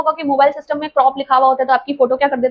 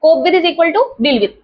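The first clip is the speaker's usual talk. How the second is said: slowly dictated rule; slow, deliberate classroom dictation; much slower than usual. Shown as a demonstration. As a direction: spell it out word by word for notes. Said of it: "teacher dictating slowly".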